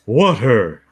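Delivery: a drawled Hank Hill water; King of the Hill water. Retold or imitated. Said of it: "that's King of the Hill".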